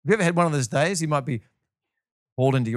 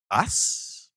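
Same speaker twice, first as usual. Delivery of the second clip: breath-only, disbelieving "Us?"; hushed mock disbelief; incredulous whisper. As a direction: gasp it under your breath. Disciples react in disbelief.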